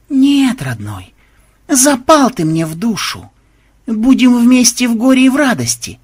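theatrical, grimly fond declaration; mock devotion. A narrator's reading. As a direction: declare undying attachment to an enemy. Mock vow to the crocodile.

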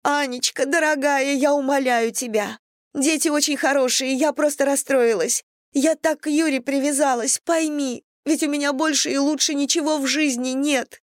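high, pleading voice through tears; tearful pleading. Acted. Irina begs Anna to let her stay, tearful pleading. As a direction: beg her friend, voice lifted by tears.

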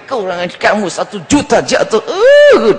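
omelan pura-pura, berujung "uh" tinggi melengking; marah-marah sambil menjahit. Acted. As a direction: mengomel kesal lalu menggeram dengan nada melonjak. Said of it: "sambil jahit itu marah-marah dia". (pura-pura marah sambil menjahit)

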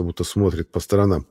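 ordinary delivery, nothing marked

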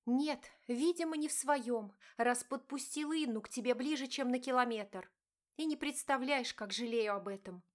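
wife confronting her cheating husband, pained; hurt wife. Acted. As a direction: plead and accuse at once. Diana answers angrily.

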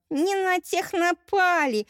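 high, slow, ringing battle shout; battle cry. Acted. Mermaid warrior taunting fleeing robbers, high triumphant shout. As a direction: yell it out triumphantly over the beaten bandits. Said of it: "выкрикнула Эльнариса".

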